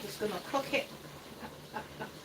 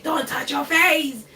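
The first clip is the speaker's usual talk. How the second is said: slow, higher mock telling-off; retold angry scolding; 5 semitones higher, 3 dB louder, slower than usual. Makeup artist scolding her for dabbing her face, imitated anger. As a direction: imitate an exasperated scolding, drawn out. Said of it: "he was so angry at me".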